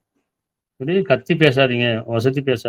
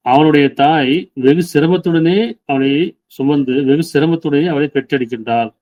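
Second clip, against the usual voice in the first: slow, raised solemn reading of scripture; solemn verse recitation. Acted. Preacher reads the verse on the mother to the congregation, slow and solemn. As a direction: read each word out slowly, with weight.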